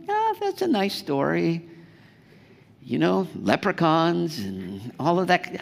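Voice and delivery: breezy brush-off of a fairy tale; lightly mocking a sceptic; mock dismissive. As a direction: shrug it off like a children's story. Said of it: "It's kinda like".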